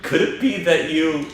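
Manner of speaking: rising disbelief as a princess. Acted. Reads Princess Peach lines.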